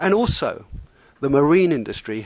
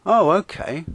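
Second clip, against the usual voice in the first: lost in thought, unbothered; dreamy musing; 4 semitones higher than usual. Acted. Narrator musing while the skipper rages, mildly dreamy. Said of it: "To which I mused dreamily".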